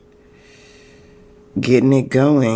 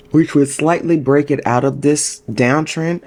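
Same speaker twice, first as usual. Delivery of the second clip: higher, yawn-stretched voice; 5 semitones higher than usual. Real, not acted. Host explaining a chart target, talking through a yawn. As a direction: keep talking as a yawn pulls the voice up. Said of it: "I just started yawning so much".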